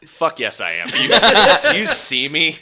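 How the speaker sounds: loud hammed-up Scottish brogue; Sean Connery impression. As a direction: bellow it like a boozy Sean Connery. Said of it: "he'd be like".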